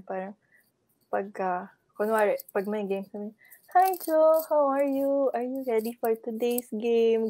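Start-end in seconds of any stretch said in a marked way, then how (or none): 3.7-7.3 sweet imitation. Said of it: "malambing, the way she talks".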